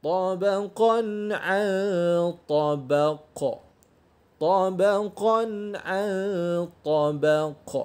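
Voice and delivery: طبق with the final ق bouncing; correct qalqalah. Shown as a demonstration. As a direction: recite طبقا عن طبق, bounce the last ق. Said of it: "itu cara bacaan yang betul".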